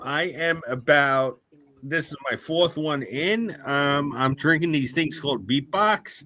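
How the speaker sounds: tipsy, slightly slurred speech. Real, not acted. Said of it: "I'm destroyed".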